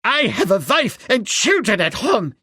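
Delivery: high, pleading cry of a scared man; frightened cry. A narrator's reading. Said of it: "he cried".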